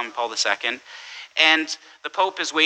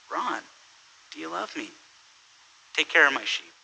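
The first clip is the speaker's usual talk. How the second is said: soft, tender question; tender Jesus; 2 semitones higher, 5 dB quieter, faster than usual. Retold or imitated. Jesus asking Bill to feed his sheep, softly. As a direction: ask it gently. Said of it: "Jesus says".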